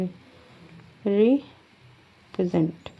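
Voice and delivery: slow and deliberate, every sound clear; slow dictation. Shown as a demonstration. Teacher slowly dictating a word to students. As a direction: spell it out with your voice. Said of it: "र की sound आ रही है".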